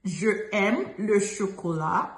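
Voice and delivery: "Je aime" as two separate vowels, slowly; slow "Je aime" without elision; unelided je aime. Retold or imitated. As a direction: quote the learner's mistake, keeping "Je" apart from "aime". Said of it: "I've heard someone say".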